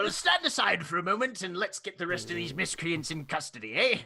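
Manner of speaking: brisk, friendly officer taking charge; a hint of hearty authority; lightly voiced warder. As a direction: lightly play an officer thanking a helper. GM plays the warder.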